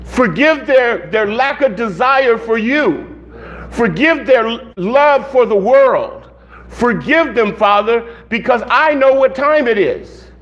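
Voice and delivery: earnest pleading prayer; begging God. Acted. Preacher asks God to forgive the people, begging. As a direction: plead with spaced, deliberate phrases. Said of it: "I'm begging God to wake people up".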